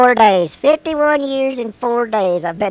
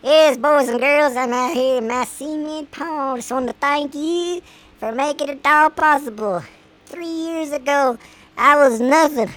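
rich man speech; 5 semitones higher than usual. Retold or imitated. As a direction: address the kids like a rich star. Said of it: "me out the cement pond going".

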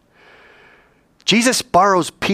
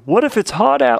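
raised-pitch objection; questioning student; 7 semitones higher, 3 dB louder than usual. Acted. Student asking the teacher about tipping, raised questioning voice. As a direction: pipe up with a what-if. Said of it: "Kinda like yesterday, remember?".

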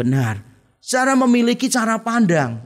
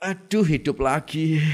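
softer, slow, fed-up sigh of a line; weary groan; 3 semitones lower, 4 dB quieter than usual. Acted. A tired person wakes and groans at another day. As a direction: drag yourself awake, disappointed.

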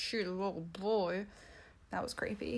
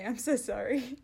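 light co-host voice saying "I'm so sorry", slightly louder; lingering mock Sam apology "I'm so sorry"; still as Sam; 3 semitones higher, 4 dB louder than usual. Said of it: "That was my impersonation of".

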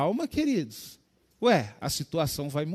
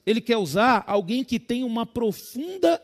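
slow, loud, raised preacher's proclamation; preaching at full force; 4 semitones higher, 7 dB louder, slower than usual. Real, not acted. Preacher answering his own question to the congregation, full force. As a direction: proclaim it, stretching the words.

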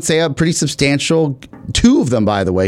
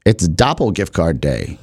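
smug reveal; 6 semitones lower, slower than usual. Retold or imitated. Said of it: "I said".

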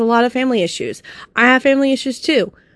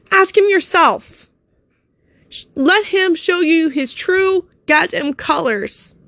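holding back tears; 4 semitones higher than usual. Real, not acted. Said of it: "I'm trying not to fucking cry here".

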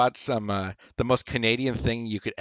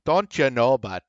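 louder folksy Canadian accent; Canadian speak; 2 semitones higher, 4 dB louder than usual. Shown as a demonstration. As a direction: offer a mock Canadian catchphrase. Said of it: "Or is it".

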